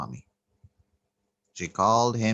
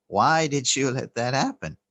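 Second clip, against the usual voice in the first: pressing, a touch louder and higher; more emphatic plea; 4 semitones higher, 3 dB louder than usual. Retold or imitated. Devotee confronts Swami again, mildly heated and insistent. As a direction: push the question harder, mildly angry. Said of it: "So she put more emphasis and said".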